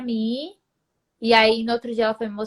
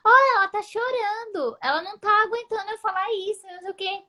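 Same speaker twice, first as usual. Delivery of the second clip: high, jeering announcement; landlady telling the housemates she is crying, high and mocking; 9 semitones higher than usual. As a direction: call it out high to mock her, fast. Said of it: "E tá vendo?".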